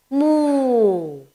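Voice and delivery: long, gently falling moo; cow's moo. Shown as a demonstration. Teacher answering what noise the cow makes, drawn-out moo. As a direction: imitate a cow, stretching the vowel. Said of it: "What is the noise he makes?".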